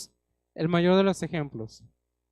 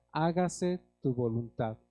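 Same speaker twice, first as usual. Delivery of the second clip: slow emphatic quote; 4 semitones lower, 3 dB quieter than usual. Shown as a demonstration.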